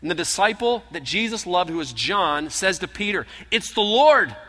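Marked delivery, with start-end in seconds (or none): 3.5-4.4 high, loud exclamation; excited recognition. Acted. John telling Peter from the boat, loud and joyful. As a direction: cry it out in joyful surprise.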